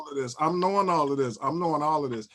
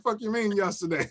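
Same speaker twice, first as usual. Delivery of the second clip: sharp disbelieving comeback, a bit higher; incredulous retort; 5 semitones higher than usual. Retold or imitated. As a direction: throw it back at him in disbelief. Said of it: "I'm like".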